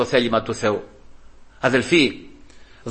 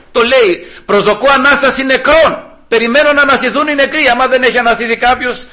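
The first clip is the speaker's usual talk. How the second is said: high, emphatic proclamation; sermon delivery climbing in pitch; impassioned preaching; 8 semitones higher, 4 dB louder than usual. Real, not acted. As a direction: declare the creed with conviction. Preacher declares the creed.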